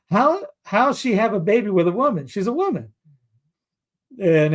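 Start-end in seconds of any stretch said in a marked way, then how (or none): 0.1-2.9 higher, questioning mock-child voice; imitated puzzled grandson. Grandson questions grandpa about the movie, lightly imitated. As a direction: mimic a grandchild asking, pitched up. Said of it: "my grandson in the middle of the movie is like".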